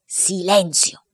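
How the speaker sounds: slow, stern father's command; severe voice. Acted. Father orders silence, severe but amused. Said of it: "con voce severa".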